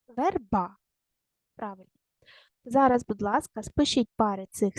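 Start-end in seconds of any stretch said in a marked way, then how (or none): 0.1-0.8 верба with a held final А; stress on БА. Shown as a demonstration. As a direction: lean on the second syllable of верба. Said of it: "Поставте наголос". (верба з наголосом на БА)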